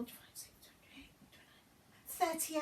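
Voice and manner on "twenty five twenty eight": whispered counting; muttered tally; counting under breath. Real, not acted.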